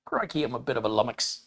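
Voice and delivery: mild mock-Aussie exclamation; Australian accent. Host showing all the Australian he knows, mock Aussie accent. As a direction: try a put-on Australian accent. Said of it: "That's all the Australian I know".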